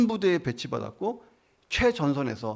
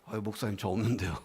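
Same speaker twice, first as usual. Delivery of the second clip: sheepish congregant; 6 semitones lower, 7 dB quieter than usual. Pretend. Congregant answers the pastor.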